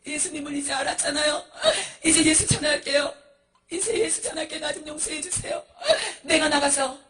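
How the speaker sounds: high, sobbing promises; tearful begging. Acted. Monk promising to preach Jesus if spared, tearful pleading. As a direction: cry out for rescue between gasps.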